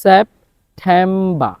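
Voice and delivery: সেপ্টেম্বর drawn out, ending -ba with no R; slow September, no R. Shown as a demonstration. Teacher modeling slow সেপ্টেম্বর for students. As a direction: stretch সেপ্টেম্বর slowly, drop the final R. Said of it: "তাহলে খেয়াল করুন".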